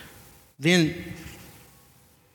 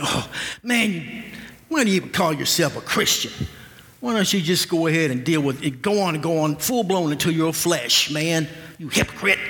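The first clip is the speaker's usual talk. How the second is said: a mocking demon sneering at a struggling Christian, pitched higher; taunting demon; 3 semitones higher than usual. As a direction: jeer like a tempter calling you a hypocrite. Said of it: "Satan's minions and demons will have us feel like".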